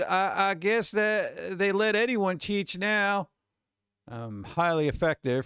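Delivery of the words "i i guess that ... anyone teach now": higher, slow sneering dad; a light take on a sneering dad; imitating a dad. Teacher quotes a student's dismissive father, slow sneer. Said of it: "he said".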